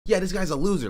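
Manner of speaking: mock the mod's sneer; mocking quote. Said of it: "him even being like".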